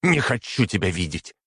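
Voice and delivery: выше и громче, «Никогда» срывается вверх; выкрикнуть; крик. A narrator's reading. Принцесса кричит отцу. (дочь выкрикивает отцу, голос высокий)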